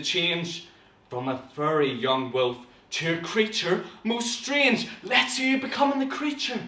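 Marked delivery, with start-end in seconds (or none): 0.0-4.9 building dramatic reading; storytelling with mounting drama; story narration. Acted. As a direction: rise in pitch towards the eerie reveal. Reads story aloud.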